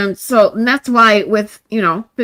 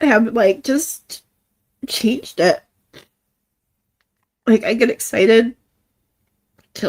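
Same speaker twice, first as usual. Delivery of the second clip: emotional, holding back tears; real tearful; 3 semitones higher than usual. Real, not acted. Streamer thanking viewers for changing her life, tearful. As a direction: keep talking until the tears stop you. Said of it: "yell at me for blubbering".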